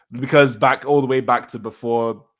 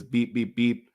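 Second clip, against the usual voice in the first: imitated monitor beeps.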